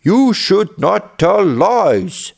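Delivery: hammed-up telling-off, drawn out word by word; mild angry yell. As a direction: scold the boy slowly and firmly. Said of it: "yelled the angry villagers".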